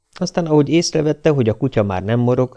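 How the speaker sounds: usual speaking voice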